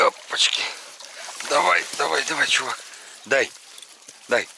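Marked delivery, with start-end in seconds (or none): 1.5-4.5 talking to a dog. Real, not acted. Urging the dog on.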